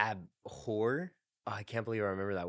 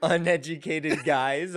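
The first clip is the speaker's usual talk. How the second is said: put-on Australian accent; 5 semitones higher, 6 dB louder, slower than usual. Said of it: "What a great insult".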